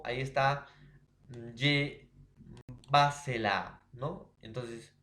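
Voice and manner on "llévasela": "llévasela" with a loud punch on "llé"; acento en llé. Shown as a demonstration. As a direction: hit the first syllable of "llévasela" hard. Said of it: "Otro ejemplo". («llévasela» con golpe de voz en «llé»)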